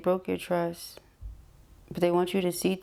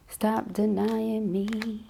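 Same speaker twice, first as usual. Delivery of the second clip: stretched slow and higher; slow, drawn-out plea; 4 semitones higher, much slower than usual. Acted. Reader voicing the absent partner, slow drawn-out plea. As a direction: draw out denying slowly as the partner's voice. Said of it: "they say".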